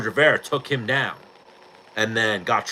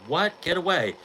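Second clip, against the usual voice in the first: lightly voiced girl, pitched higher; a higher-pitched mock brush-off as the girl; offended girl; 7 semitones higher than usual. Girl rejects a crude proposition.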